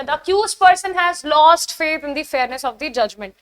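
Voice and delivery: slow, deliberate test-sentence read; teacher reading an exam question aloud slowly. Shown as a demonstration. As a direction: read the sentence word by word for the class.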